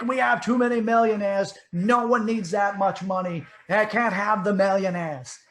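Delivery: hammed-up stump-speech rant; Bernie Sanders. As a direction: rail loudly like an indignant old senator. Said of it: "Bernie Sanders used to curse the millionaire".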